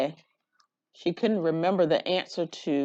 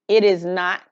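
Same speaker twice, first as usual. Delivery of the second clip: louder, insistent denial; mild childish argument; 7 dB louder than usual. Acted. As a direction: argue back like a kid. Children quarreling over camera.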